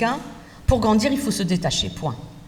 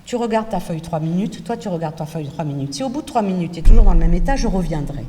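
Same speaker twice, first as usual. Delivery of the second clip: calm reassuring teacher; 4 semitones lower than usual. Shown as a demonstration. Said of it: "Je dis".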